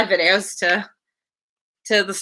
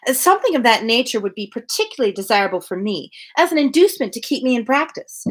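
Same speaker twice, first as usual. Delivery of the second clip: lightly voiced, eager society lady; gushing Mrs Elton. Reader voicing Mrs Elton to her friend, lightly gushing. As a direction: chatter on brightly, pleased with herself.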